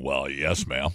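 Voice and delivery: a lightly voiced cowboy, low and slow; John Wayne drawl. Host doing John Wayne to cohost, lightly drawled. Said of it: "Seems like John Wayne used to call everybody ma'am".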